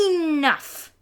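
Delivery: loud stern shout. A narrator's reading. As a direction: cut them all off loudly. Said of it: "Grandma shouted".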